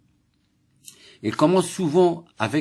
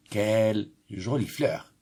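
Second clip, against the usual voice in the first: admiring. Shown as a demonstration. Teacher showing pupils admiration, admiring. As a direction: linger on the beauty of the flower. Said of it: "ça exprime l'admiration".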